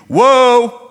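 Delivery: loud, high exclamation; a big, startled outburst for the room; mock astonishment. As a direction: react as if stunned by the claim. Mock shock at Paul's claim.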